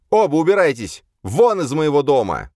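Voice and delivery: high, loud throwing-out; furious shout. A narrator's reading. Jocasta to both men, shouting them out of her house.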